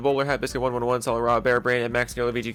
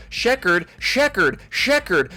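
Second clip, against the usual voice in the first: each Sheckard pitched higher and sung out; silly repeated name; 5 semitones higher, much slower than usual. Pretend. Reading supporter names, he plays with one in a silly voice. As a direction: toy with the name in a goofy voice.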